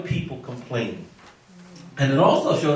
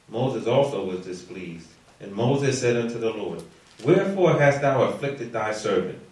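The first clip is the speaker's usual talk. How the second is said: measured, low-key Bible reading; scripture reading; 4 semitones lower, 4 dB quieter than usual. A narrator's reading. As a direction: read the verses out evenly, in a lowered pitch. Reads scripture aloud to the class.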